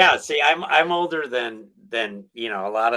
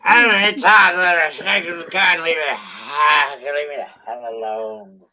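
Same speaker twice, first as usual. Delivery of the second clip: put-on drunk voice; 2 semitones higher, 4 dB louder, slower than usual. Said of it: "Come on, give me a better one".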